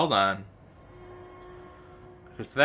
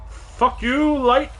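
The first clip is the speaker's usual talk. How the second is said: high, loud yell at the light; angry yell; 10 semitones higher, 4 dB louder, much slower than usual. Real, not acted. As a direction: snap at it in anger. Yelling at game light.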